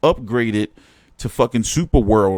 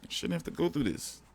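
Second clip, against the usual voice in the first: much softer, deflated repeat; defeated murmur; 3 semitones higher, 14 dB quieter than usual. Real, not acted. Streamer repeating his complaint to chat, soft resigned murmur. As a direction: let it fall away, resigned.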